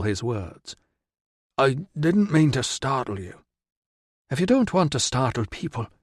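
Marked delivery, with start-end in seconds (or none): 1.6-3.4 speaking slowly. Acted. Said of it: "he spoke slowly". 4.3-5.9 put-on northern tribeswoman accent. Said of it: "with the accent of a tribeswoman from farther north".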